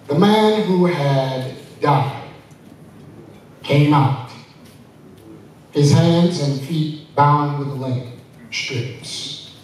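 slow, measured Bible reading; solemn scripture reading. Acted. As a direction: read it slowly and reverently.

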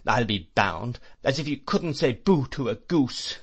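a hint of a fierce old aunt, scolding; lightly voiced aunt tearing into him; scornful aunt. Aunt scolding the stepfather, lightly scornful. Aunt berates Mister Murdstone.

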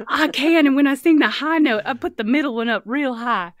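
high, loud, giggly joking; laughing. Real, not acted. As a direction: laugh through the joke. Laughing silly toe-piano joke.

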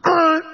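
high, loud yank grunt; effort grunt. Retold or imitated. Therapist grunting while yanking out a patient's chest hair. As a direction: grunt as you pull hard.

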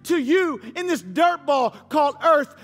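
preaching emphasis. Real, not acted. Preacher proclaiming gospel.

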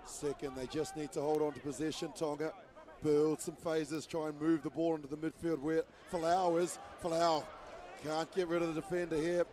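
brisk commentary calling the ball; live play-by-play. Acted. Commentator calling Tonga's possession, brisk play-by-play. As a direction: call the build-up steadily.

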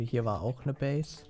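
"war" stressed to mark it as past. Real, not acted. Player shows viewers a destroyed base, stressing "war". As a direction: lean on the word "war". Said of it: "Betonung liegt auf war".

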